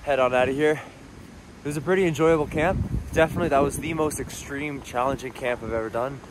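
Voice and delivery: talking through frozen lips. Real, not acted. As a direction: lips too cold to move properly. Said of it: "My lips are frozen right now. I'm talking kinda weird".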